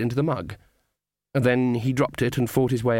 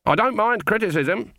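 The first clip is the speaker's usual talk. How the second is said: put-on high, indignant old witch; indignant Granny; 9 semitones higher than usual. A narrator's reading. Granny denying she takes offence at criticism, indignant. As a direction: protest touchily on a raised pitch.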